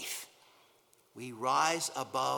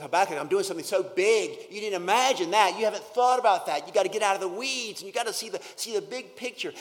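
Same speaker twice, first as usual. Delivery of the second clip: emphatic divine voice; 3 semitones higher, 7 dB louder than usual. Pretend. God's voice, emphatic preaching.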